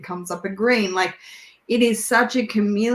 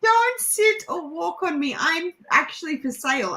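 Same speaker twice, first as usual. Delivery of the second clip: voiced warning sign; 8 semitones higher than usual.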